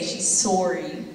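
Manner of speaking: put-on slow Canadian accent, sorry as soh-ree. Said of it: "as Canadians say".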